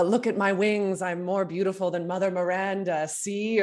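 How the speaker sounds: high, smug vain boast; pompous vain hero. Retold or imitated. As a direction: preen like a vain show-off. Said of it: "It was something like".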